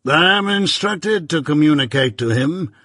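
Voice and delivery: measured, stern lawyer, lightly voiced; Jaggers.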